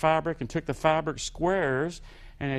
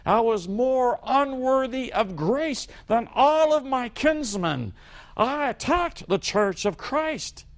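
Paul confessing; 5 semitones higher than usual. Retold or imitated. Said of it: "He says".

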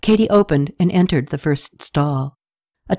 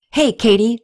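excited greeting; 6 semitones higher than usual. A narrator's reading. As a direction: call out his name gladly, glad to see her. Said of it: "Renee said excitedly".

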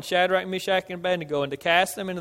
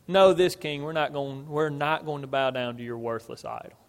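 firm, lowered-voice refusal; emphatic; 4 semitones lower than usual. Retold or imitated. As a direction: drop the volume and stand your ground. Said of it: "and they were emphatic".

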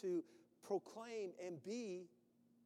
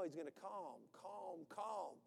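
soothing calm; 5 dB quieter than usual. Real, not acted. God calming the storm.

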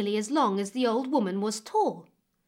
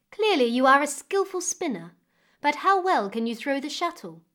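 a louder, lightly regal queen's voice; commanding queen; 4 semitones higher, 4 dB louder than usual. Acted. Queen praising then challenging May, louder and lightly higher. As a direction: speak up like a queen testing a girl.

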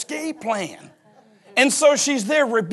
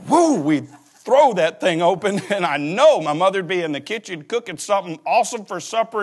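normal talking voice

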